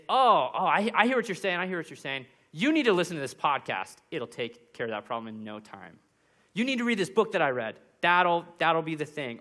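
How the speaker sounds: quick, eager know-it-all advice; eager fixer. Retold or imitated. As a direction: jump in to fix their problem. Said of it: "fixing is one that well-intentioned Christians always do".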